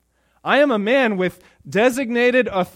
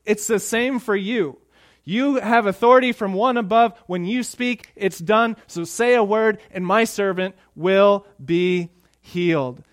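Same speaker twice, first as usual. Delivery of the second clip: louder and higher, proud commander; confident centurion; 3 semitones higher, 4 dB louder than usual. Retold or imitated. Centurion explaining his authority to Jesus, loud and sure. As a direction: speak like a man whose word is law. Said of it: "And he says".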